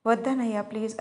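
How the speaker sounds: plain reading voice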